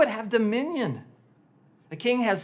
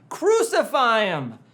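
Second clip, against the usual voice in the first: the mob's yell swelling, drawn out; louder crowd shout; 3 semitones higher, 6 dB louder, slower than usual. Retold or imitated. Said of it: "the crowd is shouting".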